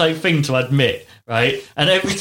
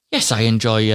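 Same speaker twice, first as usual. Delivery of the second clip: put-on Australian accent; 3 semitones lower than usual. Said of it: "but in an Australian accent".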